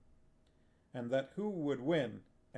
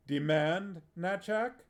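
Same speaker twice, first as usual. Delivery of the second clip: menacing, incredulous question; dangerous; 6 semitones higher, 4 dB louder than usual. A narrator's reading. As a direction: ask it with a dangerous edge. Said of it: "with a dangerous glint in his eyes".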